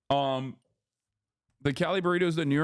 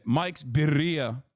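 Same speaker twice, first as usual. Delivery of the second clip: "Mike's Birria" said slowly; slow careful naming; much slower than usual. Retold or imitated. Vlogger retelling his answer to the desk man, slow. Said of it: "Am I saying it wrong?".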